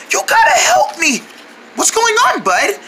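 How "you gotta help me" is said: high, strained hoarse plea; lost voice. Acted. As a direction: beg for help with no voice left. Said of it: "Why do you sound like that?".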